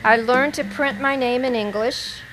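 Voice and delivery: measured poetry recital with pauses between phrases; deliberate, evenly phrased poem reading. Acted. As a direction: read it out as a poem, line by line. Reads own poem aloud.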